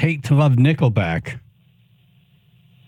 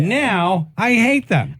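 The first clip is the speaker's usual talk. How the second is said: mock hate; 8 semitones higher, slower than usual.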